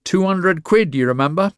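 high, loud wheezy crone; old woman wheezing for her money; wheezing greed. A narrator's reading.

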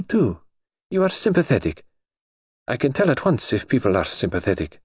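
lightly voiced high young princess; breezy, self-assured young royal; cartoon princess. Grand Duchess chats with Jane.

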